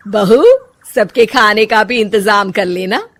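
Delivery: loud, commanding elder woman; bossy mother-in-law. Acted. Mother-in-law telling daughter-in-law to cook lunch, loud and commanding. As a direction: hand out chores without a second thought.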